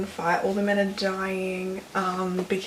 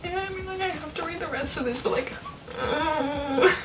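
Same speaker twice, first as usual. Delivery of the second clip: much higher, crying through laughter; 9 semitones higher, 3 dB quieter than usual. Real, not acted. Upset that Patroclus is dying, laugh-crying. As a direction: voice cracking near tears. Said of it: "I'm not okay".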